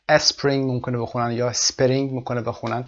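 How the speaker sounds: اسپرینگ first as "espring" with a vowel before the s, then as "spering" with a vowel inside; اسپرینگ mispronounced with extra vowels two ways; wrong added vowels. Shown as a demonstration. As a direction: show both learner errors on اسپرینگ, e-spring then spe-ring.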